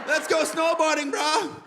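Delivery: high-pitched stoner bro; pothead voice. Acted. Stoner urging a buddy to snowboard, high-pitched pothead voice. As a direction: pipe up like an excited stoned snowboarder. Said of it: "you get that pothead voice".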